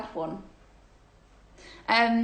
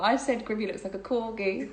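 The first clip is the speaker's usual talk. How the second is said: laughing. Real, not acted. Joke about friend's dog.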